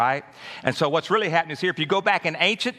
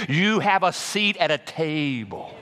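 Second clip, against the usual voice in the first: slow emphatic. Shown as a demonstration. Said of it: "I said".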